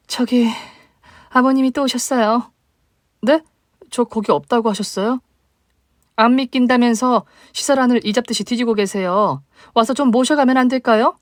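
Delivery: high, hurried voice of a worried shelter worker on the phone; flustered staff member. Acted. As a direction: sound anxious and apologetic on the call. Staff member calling about father.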